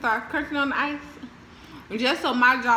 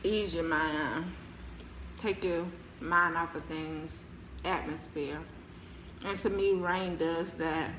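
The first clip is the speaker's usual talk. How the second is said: soft, slow soothing voice; slow and calm; 3 semitones lower, 5 dB quieter, slower than usual. Real, not acted. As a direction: ease into each word. Talking about relaxing.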